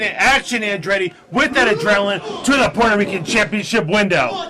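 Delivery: hyped ring announcer call; lucha libre announcer. Real, not acted. Announcer calling wrestling match.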